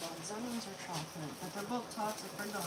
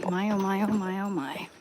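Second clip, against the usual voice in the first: loud exclamation; 11 dB louder than usual. Real, not acted. Exclaiming while combing hair.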